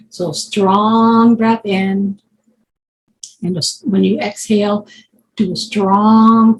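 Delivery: drawn-out key words, measured pauses; guided breathing. Real, not acted. Leads a breathing exercise.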